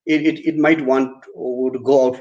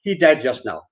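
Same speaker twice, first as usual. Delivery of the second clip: casual, higher-pitched breezy news-breaking; ongepast luchtig; 5 semitones higher than usual. Shown as a demonstration. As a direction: announce a death far too casually, like gossip. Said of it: "you will not say".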